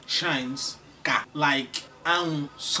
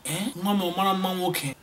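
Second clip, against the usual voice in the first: mother asking; 4 semitones higher than usual. Acted. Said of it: "your mother can say something like".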